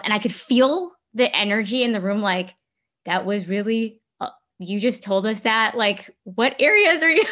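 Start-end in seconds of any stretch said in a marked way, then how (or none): 3.0-7.2 imitating prying housemates, pitched higher and louder; mock their curious prying; a prying question pitched up; nosy housemates. Imagined reaction of people in room.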